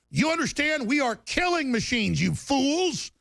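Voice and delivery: heated rant. Real, not acted. Host ranting at CNN reporters, heated and rising. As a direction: pitch climbing, pushing hard on every line.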